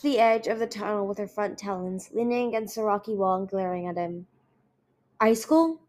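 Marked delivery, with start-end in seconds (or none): 5.2-5.8 shocked. Acted. Brother shocked at sister's state.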